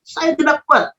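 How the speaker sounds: mock-earnest cry for strength; retold cry to God. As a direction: cry out "Tuhan", then plead helplessly. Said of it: "saya teriak dengan Tuhan".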